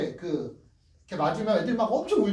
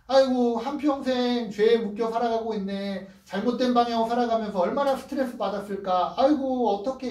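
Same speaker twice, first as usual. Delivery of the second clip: compassionate lament; 4 semitones higher than usual. Acted. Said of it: "이런 마음이 있다는 거예요".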